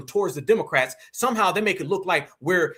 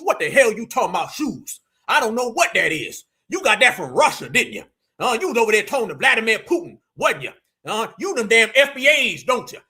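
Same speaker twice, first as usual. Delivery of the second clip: louder, accusing the voter of Russian ties; mock accusation; 3 semitones higher, 4 dB louder than usual. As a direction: turn on the voter with paranoid suspicion. Mocking politician accusing voter.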